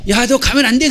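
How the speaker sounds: high, loud warning shout; reenacted parent's urgent call; retold yell. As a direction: shout after a child to stop. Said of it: "제가 소리를 질렀어요".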